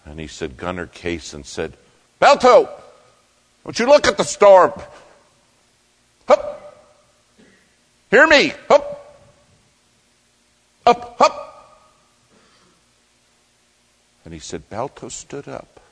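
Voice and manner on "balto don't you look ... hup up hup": very high, loud commands into the storm; urgent musher's yell. Retold or imitated. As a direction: yell over the wind to get the dog up. Musher urges dog through storm.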